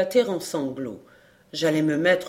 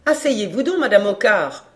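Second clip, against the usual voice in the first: eager hostess; 3 semitones higher, 6 dB louder than usual. Acted. Hostess welcomes visitor with a chair.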